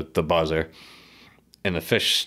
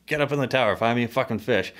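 retold yell; 5 semitones higher than usual. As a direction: bark orders up the tower, retold. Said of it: "And I yell at Charlie".

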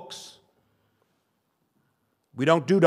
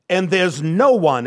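"no one" drawn out slow and louder; slow, weighty stress on "no one"; 3 semitones higher, 6 dB louder, slower than usual. Shown as a demonstration. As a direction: lean hard on "no one". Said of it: "there's this no one thing".

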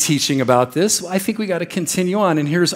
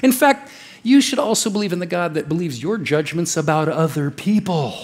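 mock false prophet. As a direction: coax them like a slick false prophet. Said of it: "that guy that's saying".

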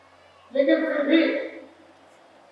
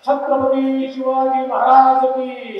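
roaring rallying speech; slower than usual. Real, not acted. Leading crowd slogan.

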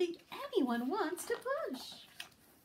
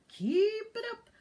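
urging; 6 semitones higher, 4 dB louder than usual. Acted. Gumpy urges them on.

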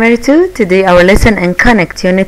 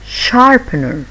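slow sharpener; 3 semitones higher than usual. Shown as a demonstration. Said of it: "listen and repeat after me".

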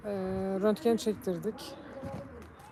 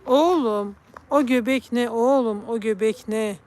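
teasing the cat; 6 dB louder, slower than usual. Real, not acted.

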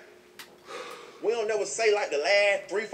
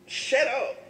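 sharp loud shut up; yelled shut up; shout; 8 semitones higher, 4 dB louder than usual. Real, not acted. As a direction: bark it at them.

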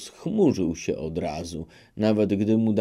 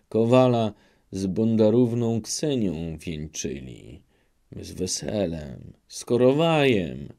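a hint of humble begging; lightly voiced pleading old man. Old best man begging the knight for mercy, mild pleading. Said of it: "a błagać".

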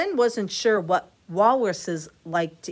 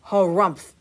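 wheezy harumph; 7 dB louder than usual. Acted. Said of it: "wheezed Walrus".

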